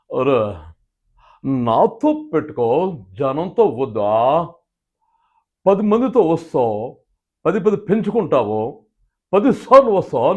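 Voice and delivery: slow, stylish swagger, lightly voiced; Chiranjeevi impression. Mimic doing Chiranjeevi's stylish version, slow. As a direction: drawl it with mass swagger. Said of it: "Chiranjeevi గారు ఇదే dialogue చెప్పాలంటే ఆయన అలా చెప్తాడు".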